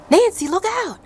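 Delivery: high, loud shouted warning; teacher shouting. Retold or imitated. Teacher calling down the slope, shouting a warning.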